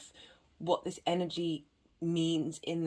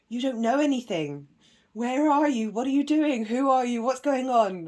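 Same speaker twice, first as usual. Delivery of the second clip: louder, higher rapid-fire questioning; nagging mind; 6 semitones higher, 8 dB louder than usual. Acted. The mind saying to the self, nagging questions. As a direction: pester with one pressing question after another. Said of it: "we have the mind here saying to the self".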